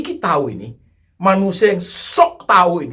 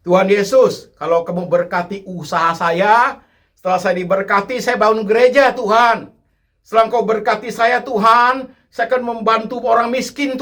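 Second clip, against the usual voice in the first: mock bargaining prayer; 4 semitones higher than usual. Preacher mimicking a bargaining churchgoer's prayer. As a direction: haggle with God like a trader.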